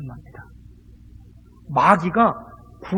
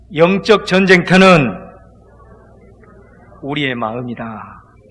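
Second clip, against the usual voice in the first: said loudly and slowly. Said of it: "저를 크게 한번 따라합니다".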